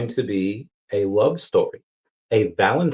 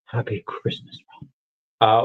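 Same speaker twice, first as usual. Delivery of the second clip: quoted reply voice. Acted.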